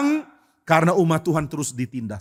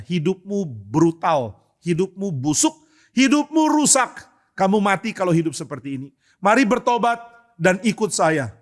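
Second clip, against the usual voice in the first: mock preachy yell; 3 semitones higher than usual. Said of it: "teriak di depan teman-teman".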